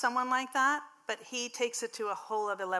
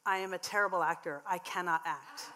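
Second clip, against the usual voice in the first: stiff, deadpan line reading; bad acting; 3 semitones lower, 4 dB quieter than usual. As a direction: read it like a wooden actor. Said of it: "in all different ways".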